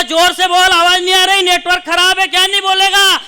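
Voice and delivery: comic mock shout into the phone; mock phone yelling.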